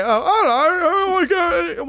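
a fussy upper-class Brit, mildly alarmed; posh British gasp. Retold or imitated. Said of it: "the proper posh British accents".

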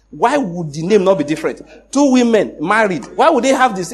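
venting his anger at the visa officers' reasoning; retold angry rant. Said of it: "I was angry".

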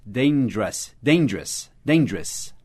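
dangerous as two syllables, "DAIN-jrus"; natural pronunciation. Shown as a demonstration. Teacher repeating dangerous for learners, reduced to "DAIN-jrus". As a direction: drill "dangerous" with a short -us ending. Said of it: "a gente fala dangerous".

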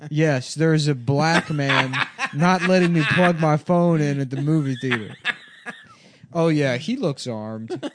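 slow, loud complaining caller; entitled caller on phone. Retold or imitated. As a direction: tattle to the police, drawn out. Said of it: "Hello, police".

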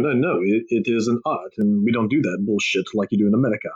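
loosely imitated Finnish accent; a rough stab at Finnish-accented English; mock Finnish accent. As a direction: play an objecting Finn, accent lightly put on. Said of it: "whatever their accent is".

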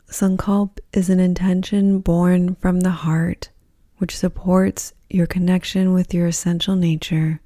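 calm, even-toned Yoga Nidra voice with long pauses; guided meditation. Acted. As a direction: guide them gently into rest, phrase by phrase.

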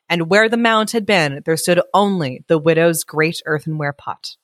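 measured, expressive storyteller; story narration. A narrator's reading. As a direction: read it aloud like a picture book. Reads story aloud.

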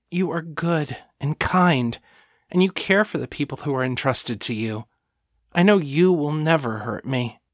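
adoring, trusting devotee; lightly voiced, reverent thrall; devoted servant. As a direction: praise your mistress earnestly, pitched a little high. Voices Lena in story.

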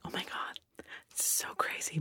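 hushed whisper, half to yourself; whispered awe. Retold or imitated. Whispering in awe on seeing the teachers' lounge again. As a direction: breathe it out like a secret.

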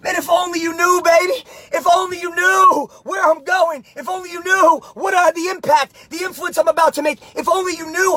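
shouted self-talk. Shown as a demonstration. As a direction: yell it at your reflection with a big grin. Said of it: "and just say".

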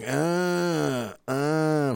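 hammed-up strained moan; mock groaning. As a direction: imitate a man groaning with effort. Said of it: "was just a guy going".

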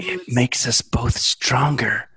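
slow creepy killer voice; slasher killer. Pretend. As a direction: purr it, slow and menacing.

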